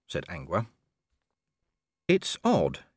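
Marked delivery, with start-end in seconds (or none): 2.1-2.8 high-pitched dog voice, musing. A narrator's reading. Gaspode lies in the sled thinking, musing. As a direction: muse in a high character voice. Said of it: "Gaspode mused".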